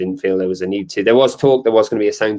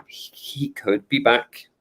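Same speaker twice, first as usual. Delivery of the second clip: "could" leaned on, slow and hedged; he COULD, with slow, careful emphasis; stress on COULD; 4 dB quieter, slower than usual. Real, not acted. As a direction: draw out the word "could" to show doubt. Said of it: "Emphasis on the could".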